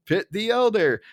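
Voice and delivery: high insistent mock retort; Barney. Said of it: "it's basically Barney going".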